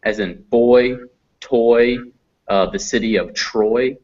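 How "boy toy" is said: put-on "boy, toy" spaced apart with a full oi glide; example words for oi. Shown as a demonstration. Teacher giving examples of oi, separated "boy, toy". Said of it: "Together they make oi".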